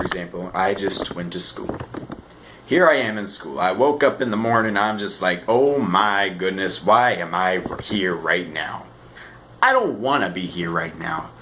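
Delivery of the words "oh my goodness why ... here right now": no energy. Acted. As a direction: drag it out like a tired student. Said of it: "having about no energy throughout the entire day".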